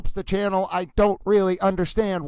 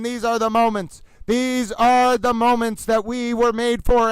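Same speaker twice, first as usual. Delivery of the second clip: frantic mock sports commentary; horse racing announcer. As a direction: yell it like a race caller. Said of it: "yell like a man who thinks he's a horse racing announcer".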